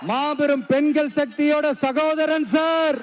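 slow, rousing proclamation to the crowd; defiant shout. Real, not acted. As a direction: shout it out like a rally cry. Rally speech, rising defiant declarations.

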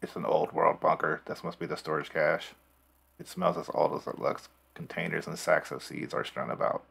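robot voice. Pretend. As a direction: read it like a machine. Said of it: "Now I sound like an evil android".

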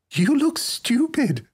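put-on high, slow girlish taunt; teasing girl. A narrator's reading. Girl mocking her muffled-up friend, high and slow. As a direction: draw out the tease in a child's voice.

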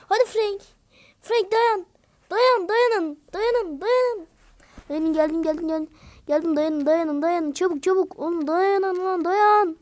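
high, loud urgent calls; urgent cheering. Real, not acted. Gamer shouting to teammates to hold on. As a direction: urge them to hold on, hurrying.

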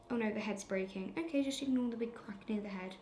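quick hushed whisper; whispered aside. Real, not acted. Girl to her viewers about the cracked seahorse, whispered. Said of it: "aside while sand breaks".

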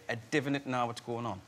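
lightly done Geordie "divn't"; North Shields accent. Shown as a demonstration. Actor repeating what his drama-school mate taught him, light Geordie accent. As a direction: say "divn't" for don't in a Geordie lilt. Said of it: "he taught me to say".

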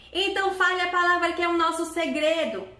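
put-on the kid at the door demanding the secret word; suspicious little goat. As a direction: test the visitor like a wary kid.

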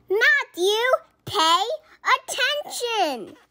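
high, loud team shout; yell. A narrator's reading. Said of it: "The other players yelled".

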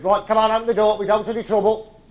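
acted no-nonsense order, high and loud; commanding call. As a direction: call out firmly to someone shut inside. Man orders through bathroom door.

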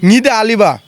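নিদে আলিবা, the place name reversed; backwards speech. Shown as a demonstration. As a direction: flip syllables: নিদে আলিবা. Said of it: "এই যে বালিয়াডাঙ্গি".

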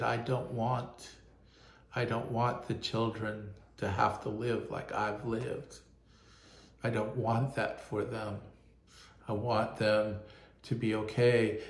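quietly relaying a man's tearful wish, lightly choked; tearful plea. Retold or imitated. Migrant mechanic tells the pastor his hope for children, softly tearful. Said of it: "he started to tear up and he said".

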